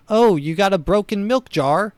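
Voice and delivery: put-on high, cheery British constable accent; a friendly British beat cop greeting; British bobby voice. Old-time British cop greeting a neighbour, cheery British accent. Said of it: "I don't know why he's British".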